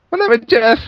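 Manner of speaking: jumps high on "my name is Jeff", a goofy put-on voice; mock deadpan phone greeting. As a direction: blurt the Jeff line in a silly high voice. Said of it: "answered the phone and just went".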